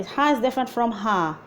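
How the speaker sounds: first ha breathy from the throat, second ha a light h; two different ha sounds. Shown as a demonstration. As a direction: contrast the throat ha with the plain ha.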